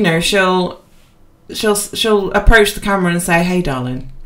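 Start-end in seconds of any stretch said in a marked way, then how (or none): 3.4-4.1 southern greeting. Retold or imitated. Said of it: "she's got a deep southern accent, which I can't do".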